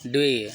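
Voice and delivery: "ड्वे" said dway, no final t; silent t. Shown as a demonstration. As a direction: end "ड्वे" on the open vowel. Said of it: "टी silent हो जाता है".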